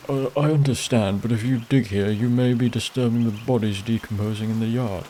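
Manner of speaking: lightly voiced, cautious old-church Father; a hint of a fretting priest, gently objecting; hesitant priest.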